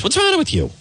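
high, put-on New York gangster; De Niro impression. Imitating De Niro scolding the guy at the bar. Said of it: "De Niro just keeps saying".

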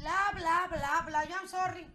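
loud blah-blah imitation; high, loud parrot chatter; parrot's nonstop blabbing. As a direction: mimic a parrot drowning someone out. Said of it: "no dejaba hablar la señora".

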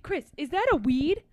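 high, hammed-up outrage; imitating a Vine. Host quoting a Vine to her friend, mock outrage. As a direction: squeal it like a scandalized skit character.

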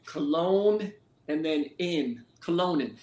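"Colonen" said as Cologne plus in; surname pronunciation. Shown as a demonstration. Guest telling host his last name, "Colonen" pronounced like Cologne plus in. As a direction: slowly sound out "Cologne", then "in", then join as "Colonen". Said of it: "How do you say your last name".

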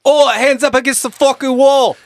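high, loud furious cop yelling; angry cop. Pretend. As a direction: bark orders like an angry cop. Acting out an aggressive cop.

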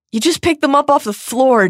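high, dawning accusation; accusing realization. A narrator's reading. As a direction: catch him out.

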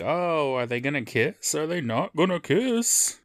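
drawn-out, rising mock anticipation; feigned will-they-won't-they excitement; mock breathless suspense. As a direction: play at being hung up on a teen romance. Mock suspense over teen romance.

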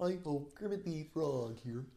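dark, throaty Kermit; Kermit impression. Shown as a demonstration. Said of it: "Many impressions of Kermit sound something like this".

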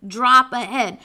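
slow, loud warning announcement; deliberate, heavily spaced danger notice; dramatic sign reading. Acted. Reads warning sign aloud dramatically.

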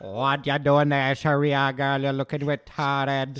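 slow, bad Jamaican accent. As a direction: imitate a Jamaican mom badly. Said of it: "In a Jamaican accent?".

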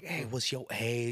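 slow, lightly put-on Asian accent; a hint of a mock Asian accent; lightly imitated Asian accent, drawn out. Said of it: "I sound Asian".

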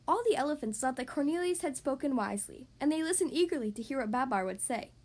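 put-on gentle, lively read-aloud for children; story narration. A narrator's reading. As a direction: tell it like a bedtime picture book. Reads picture book aloud.

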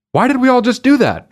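high, quick mock disbelief; baffled at what you just danced to; imitated bewildered crowd. Dancers right when the song ends, mock bewilderment.

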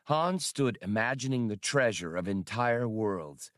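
ordinary delivery, nothing marked

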